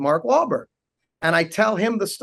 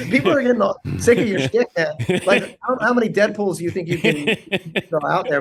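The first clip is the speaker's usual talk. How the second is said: higher, amused mock scolding; laughing exasperation; 4 semitones higher than usual. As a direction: tease him through a laugh. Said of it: "And I'm like".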